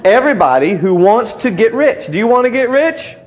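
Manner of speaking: laughing the verse out. Real, not acted. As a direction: repeat it through a chuckle. Laughing through the repeat.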